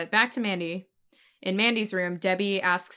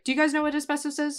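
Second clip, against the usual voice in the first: acted question; 8 semitones higher, faster than usual. Acting out boss addressing workers.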